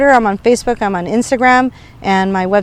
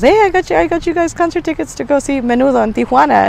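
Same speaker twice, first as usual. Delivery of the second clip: uncle voice; 6 semitones higher than usual. Retold or imitated. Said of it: "and he goes".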